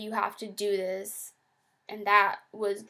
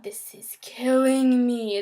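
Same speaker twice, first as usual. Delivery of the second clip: slow, strained whisper of distress; anguished whisper; 9 dB louder, slower than usual. Real, not acted. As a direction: push the words out in a desperate whisper. Overwhelming anxiety attack.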